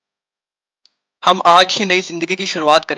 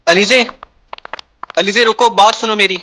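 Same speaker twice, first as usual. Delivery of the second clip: calling out; 3 semitones higher than usual. Acted. Calling after leaving girl.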